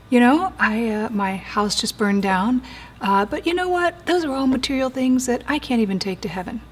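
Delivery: brushing off the loss with a falsely bright lift; mock cheerful denial. Preacher mimicking a fire victim who breezily brushes off the loss. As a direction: sound breezy, as if a burned house is nothing. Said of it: "Do you hear the bypass?".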